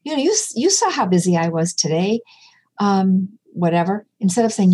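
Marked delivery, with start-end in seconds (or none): 0.0-2.2 mock riled-up parent. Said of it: "instead of getting all riled up as a parent saying".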